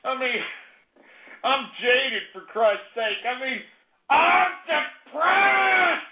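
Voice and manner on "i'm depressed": slow, stretched-out hammy yell; mock despairing shout. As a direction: wail it like a wounded ham. Staged rant about his show.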